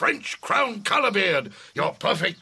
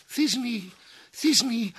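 monstrous little voice; 6 semitones higher than usual. Acted. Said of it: "I'll speak in a monstrous little voice".

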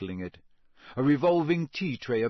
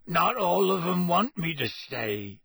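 hoarse, gloomy rumble; 6 semitones higher than usual. A narrator's reading. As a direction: rasp it out sadly. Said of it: "said Hagrid hoarsely".

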